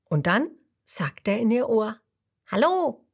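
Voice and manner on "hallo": tiny mosquito voice. A narrator's reading. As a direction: pop up into her ear with a hello. Mosquito greets in ear.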